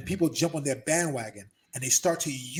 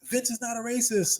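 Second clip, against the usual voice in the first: higher, louder accusing voice; mock outrage; 7 semitones higher, 5 dB louder than usual. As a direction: throw the accusation back sarcastically. Mocking accusers, then correcting them.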